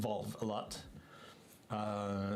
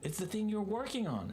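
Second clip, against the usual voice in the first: French coworker; 11 semitones higher than usual. Retold or imitated. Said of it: "And it was like".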